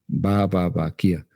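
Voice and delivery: ba, ba, ba, then kia, drifting; ba syllables easing into babble; syllable demo. Shown as a demonstration. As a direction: start from ba and let kia slip out. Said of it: "pronuncia esa sílaba".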